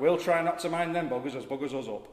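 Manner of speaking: loud, laughing broad Yorkshire. Acted. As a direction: crack up mid-line in Yorkshire. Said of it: "In a Yorkshire accent".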